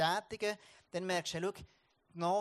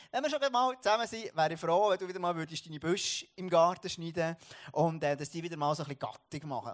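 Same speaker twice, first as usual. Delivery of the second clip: louder, put-on voice of the elderly neighbour; a hint of the older neighbour, raised and insistent; neighbour's request; 5 dB louder than usual. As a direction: play the older neighbour asking a favour. Neighbour asks him a favour.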